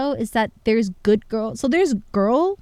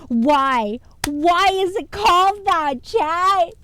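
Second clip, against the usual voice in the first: mock outrage; 7 semitones higher, 5 dB louder, much slower than usual. Real, not acted. Reacts to embarrassing perfume name.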